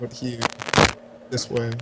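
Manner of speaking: low, soft deathly voice; a lightly voiced Grim Reaper. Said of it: "you sound like the Grim Reaper".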